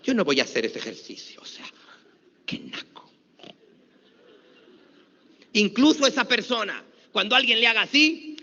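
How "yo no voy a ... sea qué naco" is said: 1 snob. Retold or imitated. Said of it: "aquella persona que dijo".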